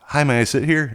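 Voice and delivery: airy imitation of an effeminate man; effeminate guy. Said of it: "he's kind of effeminate".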